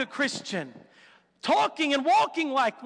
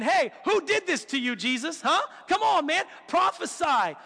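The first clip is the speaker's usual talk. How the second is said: mocking taunt; 3 semitones higher than usual. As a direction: taunt him like a bullying tormentor. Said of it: "making fun of him".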